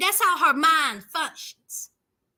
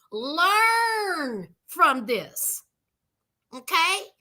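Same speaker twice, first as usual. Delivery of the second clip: very slow, crying plea; tearful plea; much slower than usual. Retold or imitated. Mother pleading with her daughter at the jail, crying. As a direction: beg her through tears, drawn out. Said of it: "This is what her mother told her".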